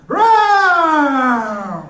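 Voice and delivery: roar, half laughing; laughing lion roar. Pretend. Comic playing a roaring lion.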